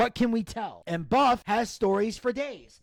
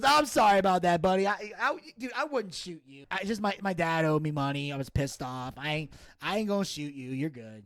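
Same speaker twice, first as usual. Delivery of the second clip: reassuring apology; 4 semitones lower than usual. Retold or imitated. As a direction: settle him down gently. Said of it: "He goes".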